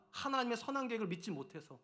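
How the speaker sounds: usual speaking voice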